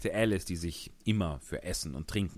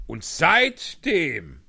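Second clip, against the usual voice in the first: sad; 9 semitones higher, 10 dB louder, much slower than usual. Acted. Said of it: "sprach der Hutmacher traurig weiter".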